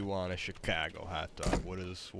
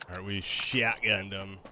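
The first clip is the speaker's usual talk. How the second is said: put-on Chicago accent; 5 dB louder than usual. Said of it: "I said it with, like, a Chicago accent".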